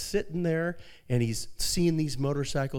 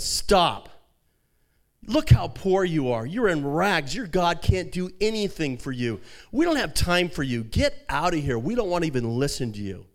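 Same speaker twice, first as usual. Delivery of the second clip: raised, mocking dismissal of a poor preacher; scornful rebuke; 4 semitones higher, 4 dB louder than usual. Villager sneering at the poor pastor, scornful rebuke. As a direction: sneer him away, louder.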